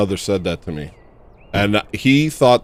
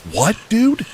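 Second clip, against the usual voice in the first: high incredulous what; stunned disbelief; 14 semitones higher, 4 dB louder than usual. Real, not acted. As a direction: voice shoots up high. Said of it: "reacting to story".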